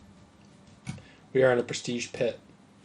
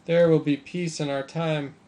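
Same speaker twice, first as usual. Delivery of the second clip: grand speech; 4 semitones higher, 5 dB louder than usual. Shown as a demonstration. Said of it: "repeat, slower and grander".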